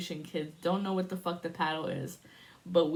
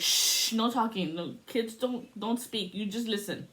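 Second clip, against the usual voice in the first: tia shushing. Retold or imitated. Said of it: "my tia was always the one that was like".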